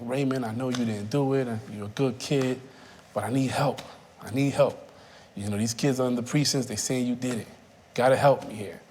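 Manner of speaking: lightly voiced fatherly coaxing; a hint of a gentle father asking for help; mild father figure. Detective coaxing the scared boy, lightly fatherly. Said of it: "he comes on like a father figure".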